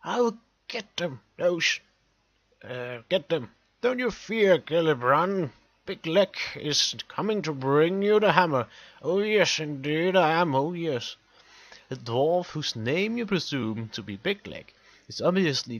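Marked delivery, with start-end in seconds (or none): 0.0-11.2 raised, higher-pitched delirious shouting. A narrator's reading. Delirious dwarf to an imagined Gillibrand, shouting. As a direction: shout feverishly as the wounded dwarf. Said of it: "starts to shout".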